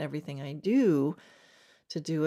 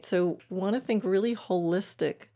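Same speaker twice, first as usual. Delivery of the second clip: usual speaking voice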